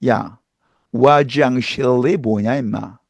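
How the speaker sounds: teasing teacher scolding, low, slow; half-joking scold; mildly scolding teacher; mock scolding. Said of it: "한국어를 가르칠 때는".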